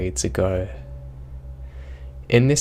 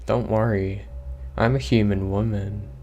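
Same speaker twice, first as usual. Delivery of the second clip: monotone voice. Retold or imitated. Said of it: "in a very monotone voice".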